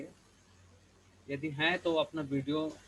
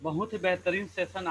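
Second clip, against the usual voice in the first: louder on request; speaking up; 3 semitones higher, 3 dB louder than usual. Real, not acted. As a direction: raise the voice to be heard. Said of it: "थोड़ा जोर से बोलिए". (ज़ोर से बोलते हुए)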